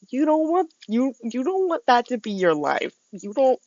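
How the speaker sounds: menacing. Real, not acted. Warning about her revenge.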